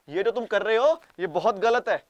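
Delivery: wag a finger, half-hearted; mock scolding. Japan pretending to scold Russia, loud mock reproach. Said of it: "बोल रहे हो".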